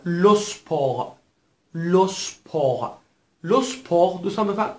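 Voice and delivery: لو سپور with the final T left unsaid; silent final T. Shown as a demonstration. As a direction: end لو سپور on the R, no T. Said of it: "تی که در پایان کلمه قرار گرفته تلفظ نمیشه". (لو سپور بدون تلفظ ت پایانی)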